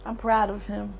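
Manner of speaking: soft, hushed loving goodbye; mother's soft message to her dying son; tender farewell. Real, not acted. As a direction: gently let him go.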